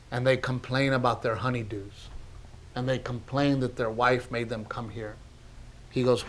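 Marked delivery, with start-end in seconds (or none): 0.1-5.2 subdued, softening retelling; emotional. Real, not acted. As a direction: tell it gently, touched by the memory. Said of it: "I'm getting emotional right now thinking".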